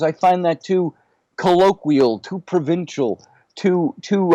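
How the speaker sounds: a hint of Jewish New York in the voice; Richard Feynman. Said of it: "in this thick, uh, New York, uh, you know, Jewish accent that he had".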